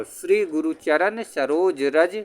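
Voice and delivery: slow recitation, then a clear stop after "रज"; pause after रज. Shown as a demonstration. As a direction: chant "श्री गुरु चरण सरोज रज" slowly and rest on "रज". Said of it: "रज के बाद हमको थोड़ा रुकना है".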